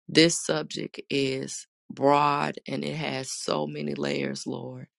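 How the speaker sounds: earnest spoken prayer. Acted. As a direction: pray aloud to the congregation. Leads an opening prayer.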